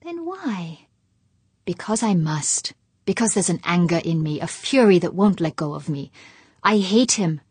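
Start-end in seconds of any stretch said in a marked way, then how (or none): 1.7-7.4 loud, seething rant, louder than his own talk; raging hatred. Acted. Husband pouring out his hatred of Humphreys to his wife, loud and furious. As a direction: spit out every I hate.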